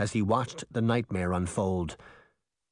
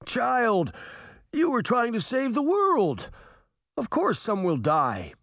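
booming guardian; 12 semitones higher than usual. A narrator's reading. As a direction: announce it like a towering Titan. Giant Titan answers Sabrina.

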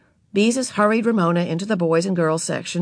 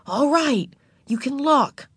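giving-in big sister; 8 semitones higher, slower than usual. Acted. Beezus giving in.

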